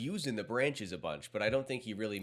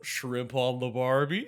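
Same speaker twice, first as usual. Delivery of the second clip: slow, drawn-out fake Australian accent; a hammed-up Australian accent, stretching Barbie; half-hearted Australian accent on Barbie; mock Australian accent; 2 semitones higher, 5 dB louder, slower than usual. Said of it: "Australian accent".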